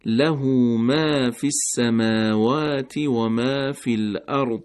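له ما فی السماوات slowly with all letters light and thin; light thin reading. Shown as a demonstration. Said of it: "صفت استفال رو باید رعایت بکنیم".

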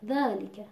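ذَلِکَ with the lam's kasra clipped short; ذَلِکَ with the lam shadowed by the dhal; swallowed lam kasra. Shown as a demonstration. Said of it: "زیر سایهٔ ذا قرار گرفته".

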